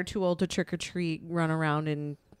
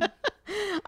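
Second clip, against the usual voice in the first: villain laugh; 13 semitones higher, 4 dB quieter than usual. Pretend. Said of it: "you gotta be evil".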